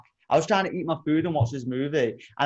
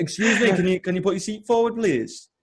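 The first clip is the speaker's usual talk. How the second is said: insistent request; 4 semitones higher than usual. Retold or imitated. Retold request, second time.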